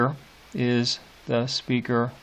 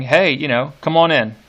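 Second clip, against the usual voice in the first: paraphrased nurse; 6 dB louder than usual. Retold or imitated. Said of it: "And saying".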